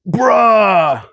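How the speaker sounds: high, drawn-out Cali "Bruh"; California bro. Shown as a demonstration. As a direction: stretch out "Bruh" like a California surfer. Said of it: "stupid way that I speak".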